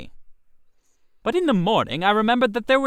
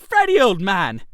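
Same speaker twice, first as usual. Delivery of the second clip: shaky pleading; 4 dB louder than usual. Acted. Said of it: "My voice shook".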